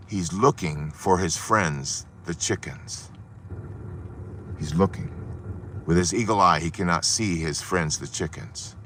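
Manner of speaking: soft, low storytelling; hushed suspense. A narrator's reading. Preacher building suspense as the eagle searches, hushed. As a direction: drop to a near whisper.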